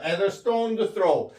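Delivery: very slow, each word drawn out; slow model reading. Shown as a demonstration. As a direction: spell it out slowly for the class. Teacher models English phrase slowly. (아주 천천히 늘여 읽기)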